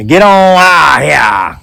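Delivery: slow, drawn-out Appalachian phrase; Appalachian drawl. Shown as a demonstration. Officer sends the boys off, Appalachian drawl. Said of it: "That's Appalachian American for".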